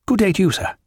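high-pitched officious farewell; huffy young captain. A narrator's reading. Dixon returning Jack's farewell, huffy and high. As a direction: return the courtesy in a high, stiff voice.

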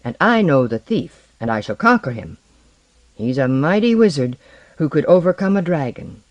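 proud, boastful villain voice; arrogant sorcerer. Acted. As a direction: gloat over the simple fisherman. Blackbeard boasts to Bert.

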